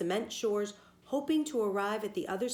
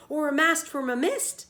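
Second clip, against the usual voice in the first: loud, higher storybook yell; 7 semitones higher, 7 dB louder than usual. A narrator's reading. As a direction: shout it back, topping him. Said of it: "yelled the man".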